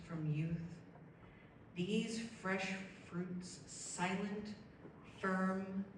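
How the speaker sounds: measured poem recital with held pauses; deliberate spoken-verse delivery; poetry reading. Acted. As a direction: read it as verse, lingering on phrases. Reads own poem aloud.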